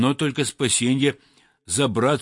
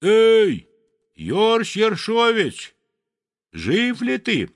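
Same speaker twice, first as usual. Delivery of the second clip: high, loud call across the ice; 10 semitones higher, 4 dB louder, slower than usual. Acted. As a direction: shout down to a friend. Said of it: "и крикнет". (громкий высокий оклик)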